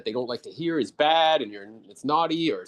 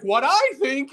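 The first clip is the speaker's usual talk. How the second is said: high, slightly louder mimicking of the trainee; mock high echo; 12 semitones higher, 4 dB louder, slower than usual. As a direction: parrot his question in a high mock voice. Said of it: "And you were like".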